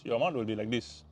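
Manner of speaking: normal talking voice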